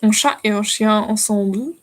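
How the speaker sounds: French accent, learner's sample phrase. Shown as a demonstration. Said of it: "my French accent is excellent".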